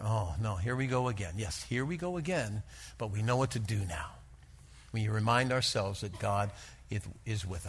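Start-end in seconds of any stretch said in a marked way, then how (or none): 0.0-1.3 a sighing, tired oh no; weary dismay. Pretend. Believers facing turbulence again, mildly weary. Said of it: "And they're saying to one another". 1.4-4.1 softer, settled and assured; calm resolve. Pretend. Believers reassuring one another in turbulence, calm. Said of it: "And they're saying to one another".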